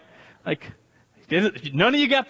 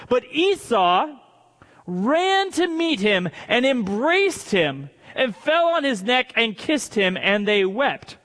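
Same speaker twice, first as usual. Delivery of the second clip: measured, emphatic story reading; declaimed Bible narration; Scripture reading. Acted. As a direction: read it out deliberately to a congregation. Reads Scripture aloud.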